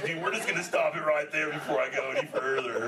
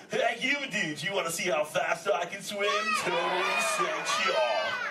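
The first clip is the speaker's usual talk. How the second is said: excited calling out; 5 semitones higher than usual. Acted. Calling out to audience.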